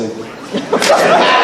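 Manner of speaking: the good stuff, squeaked very high and slow in a giddy breath; high breathy squeal. Shown as a demonstration. Comic at an open mic, savoring the good stuff, high squeal. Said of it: "I'll say".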